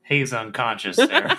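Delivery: exasperated. Real, not acted. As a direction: call out her name in alarm. Urging a player mid-crisis.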